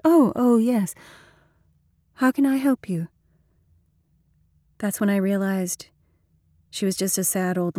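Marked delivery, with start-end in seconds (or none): 0.0-3.1 put-on flustered old woman. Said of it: "said quickly and obviously embarrassed".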